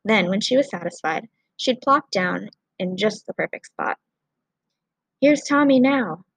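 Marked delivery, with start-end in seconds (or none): 5.2-6.2 slow, loud call, higher up. A narrator's reading. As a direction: call it out across the rubble. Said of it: "cried the rescue volunteer".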